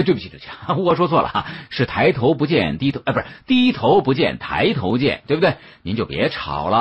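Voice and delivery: high, chatty peacemaker, fumbling the sayings with a laugh; jolly the quarreling pair into calm; smoothing things over. Acted. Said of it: "连忙跑过来打圆场".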